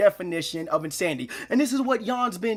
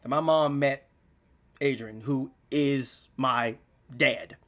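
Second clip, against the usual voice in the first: holding back tears; 6 semitones lower than usual. Real, not acted. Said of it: "I'm about to cry right now".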